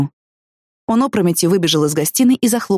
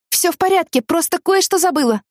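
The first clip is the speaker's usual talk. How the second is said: called out brushing off; 11 semitones higher than usual. Acted. Calling back while running off.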